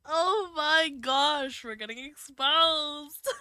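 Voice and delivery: loud, high, slow squeal of delight; excited squeal. Real, not acted. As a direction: shriek it out, overjoyed and flustered.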